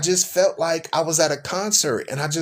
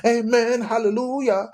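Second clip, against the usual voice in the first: mock amen; 5 semitones higher than usual. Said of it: "you're like".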